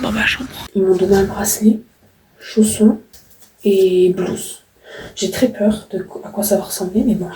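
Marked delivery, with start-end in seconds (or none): 5.2-7.0 nervous whisper. Real, not acted.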